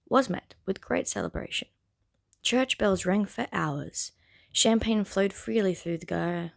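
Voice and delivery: measured storybook reading; story narration. Acted. Reader sharing the Bridgerton prologue on YouTube, narrating. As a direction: read it out with deliberate phrasing. Reads the novel aloud.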